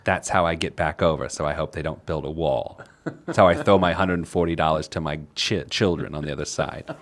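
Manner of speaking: put-on low, soft old lady act; seventy-year-old woman. Beatrice answering about the border wall, old woman voice. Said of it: "get my seventy-year-old woman voice".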